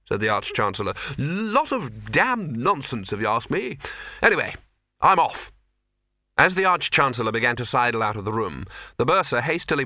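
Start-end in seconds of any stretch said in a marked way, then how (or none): 1.2-5.5 gruff hurried farewell; dismissive wizard. Acted. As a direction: wave it off and leave. Arch-Chancellor dismissive.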